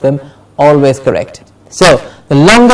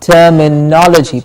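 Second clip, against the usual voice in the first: "terminology" as ter-mi-NOL-uh-jee; stress before -logy. Shown as a demonstration. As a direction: model "terminology" with weight on "no". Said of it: "the syllable before logy is stressed".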